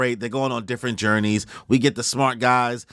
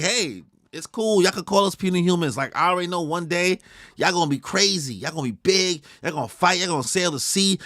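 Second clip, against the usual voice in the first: pitched-up encouraging voice; high voiced Usopp; 5 semitones higher than usual. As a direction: hype the kids up as Usopp. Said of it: "Usopp is like".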